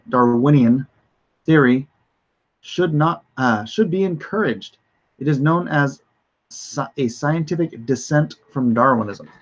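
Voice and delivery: deliberate, emphatic headline reading; measured reading-aloud delivery; news article read. Real, not acted.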